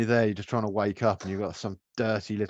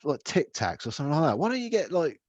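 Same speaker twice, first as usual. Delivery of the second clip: high mocking voice; 9 semitones higher than usual. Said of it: "And I'm like".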